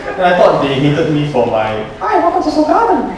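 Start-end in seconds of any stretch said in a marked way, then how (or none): 2.0-3.2 put-on Korean accent. Waiter greeting diners in a Korean accent. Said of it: "in my best Korean accent".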